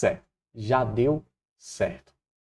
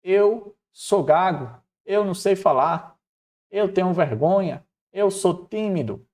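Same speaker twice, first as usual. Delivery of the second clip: higher-pitched, mildly hammed-up pleading; acted-out objections in a raised pitch; anxious protest; 7 semitones higher, 3 dB louder than usual. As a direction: protest your own shortcomings as a worried Moses. Acting out Moses' anxious objections.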